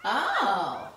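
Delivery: loud, laughing monkey chatter back; loud mocking monkey chatter. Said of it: "talking right back to him".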